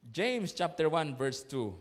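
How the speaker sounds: slow, spaced James chapter one verse two; slow reference. Shown as a demonstration. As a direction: read the verse number slowly for the congregation. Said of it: "Sige nga".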